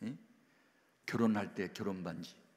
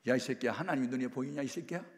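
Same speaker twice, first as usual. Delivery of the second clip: fast, sneering scold; mocking yell; faster than usual. Mother scoffs at the pastor about God, fast mocking yell. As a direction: spit it back at the preacher.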